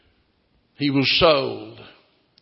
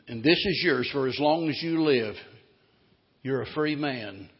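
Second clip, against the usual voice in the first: tender reassurance; 2 semitones lower than usual. Acted. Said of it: "He said".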